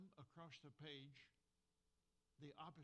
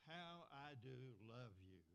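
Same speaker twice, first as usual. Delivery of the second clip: heartfelt exclamation. Shown as a demonstration. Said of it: "exclamation mark".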